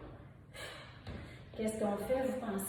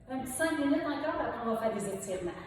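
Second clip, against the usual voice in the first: loud, higher rallying call to the class; pumped-up coach; 3 semitones higher, 3 dB louder, faster than usual. Real, not acted. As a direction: fire up the group before the last stretch. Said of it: "coach pumping up class". (coach motivant, crié plus fort)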